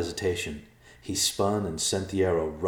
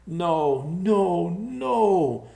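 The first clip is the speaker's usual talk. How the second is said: despairing cry; 12 semitones higher, 6 dB louder, much slower than usual. Acted. Thomas despairs, pacing.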